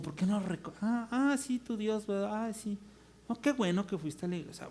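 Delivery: softly brushing it off; mock polite indifference. People hearing about your God, mock polite and dismissive. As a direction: humor them without interest.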